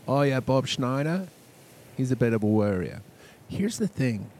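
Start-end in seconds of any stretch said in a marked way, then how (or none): 0.1-3.0 put-on louder English-accented voice; imitated English voice, projected. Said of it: "English would say".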